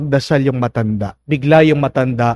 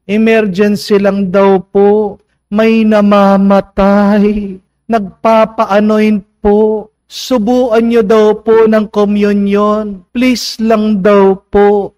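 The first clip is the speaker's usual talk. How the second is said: pleading sacristan; 5 semitones higher, 4 dB louder, much slower than usual. Retold or imitated. Sacristan begging priest to come.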